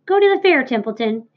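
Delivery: put-on an old sheep urging the rat on. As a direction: push him toward the fair.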